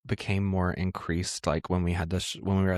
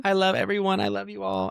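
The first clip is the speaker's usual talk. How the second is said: high-pitched loving coo; mock gushing; 9 semitones higher than usual. Co-host acts out her sweet self adoring everyone, high and gushing. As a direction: gush over everyone in a high voice.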